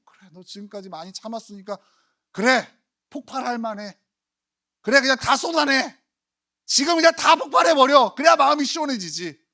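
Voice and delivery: mock encouragement. Imagined God urging believers to explode, building to loud. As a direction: egg him on to let it all out.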